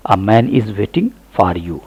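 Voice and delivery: "A man" said "uh man", sentence drawn out slowly; slow model sentence with "A" as a short uh. Shown as a demonstration. Teacher showing learners A sounds like uh, slow model reading. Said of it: "अ होता है".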